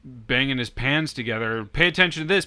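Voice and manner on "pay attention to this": mock Trump rally call. Imitating Trump banging pans.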